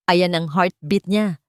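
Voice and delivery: slow, smiling and gently pleased; a mild smile in the voice, unhurried. Acted. Doctor shows the heartbeat to Yana, slow and smiling. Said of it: "nakangiting sabi ng doktora".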